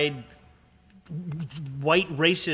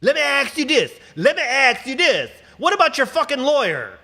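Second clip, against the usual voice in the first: loud challenge; 10 semitones higher, 7 dB louder than usual. Real, not acted. Host shouting a challenge at the community, much higher and louder. Rant peak.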